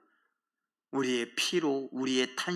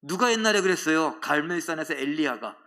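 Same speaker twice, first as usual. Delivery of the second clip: ordinary talk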